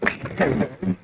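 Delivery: high giggle; can't stop laughing. Real, not acted. Voice glitch comedy.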